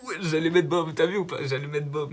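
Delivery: buzzing over the almost-right guess; excited. Real, not acted. (tout excité)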